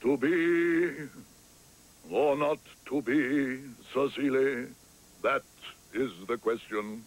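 slow, measured stage declamation; milk each word like an old ham; the actor resumes his Hamlet speech after the prompt, slowly; hammy recital. Acted.

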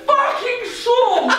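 pained shout. Real, not acted. Soap fizzing in his eye.

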